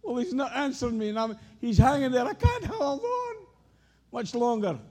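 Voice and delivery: high, loud strained plea; desperate cry. Pretend. Believer crying out to the Lord, high desperate plea. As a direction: cry out that you can't hold on. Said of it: "it seems like".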